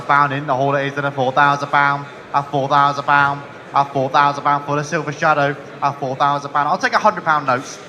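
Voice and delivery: loud rhythmic auctioneer calling; frantic trading floor shouting. Real, not acted. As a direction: hammer out the bids to the hall.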